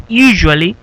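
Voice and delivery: "usually" sounded out clearly as YOO-zhually; pronunciation model. Shown as a demonstration. Teacher correcting pronunciation for the class, careful model of "usually". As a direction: say "usually" slowly, with a drawn-out YOO. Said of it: "pronunciación en algunas palabras aquí".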